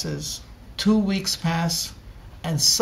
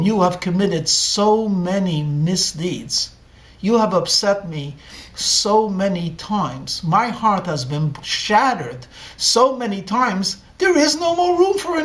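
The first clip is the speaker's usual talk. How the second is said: grieving father; 3 semitones higher, 4 dB louder than usual. Acted. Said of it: "And the father began to weep".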